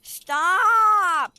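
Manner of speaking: high, slow loud yell; playful shriek. Pretend. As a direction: shriek as it catches you. Being chased in game.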